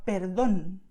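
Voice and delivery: perdón drawn out, stressed on DÓN; stress on the accent. Shown as a demonstration. Teacher giving a second example, perdón stressed on DÓN. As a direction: land slowly on the final syllable of perdón. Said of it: "You just go and stress it".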